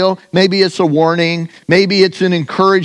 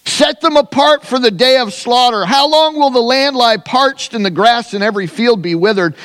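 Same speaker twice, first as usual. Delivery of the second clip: raised, intoned scripture prayer; preaching prayer; 4 semitones higher than usual. Acted. Preacher praying Jeremiah's complaint to God, raised and intoned. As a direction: pray it out like a preacher.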